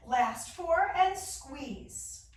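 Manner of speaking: straining through the crunch, slow; doing sit-ups. Real, not acted. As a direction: squeeze it out mid-effort. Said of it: "Oh my gosh, my abs on fire".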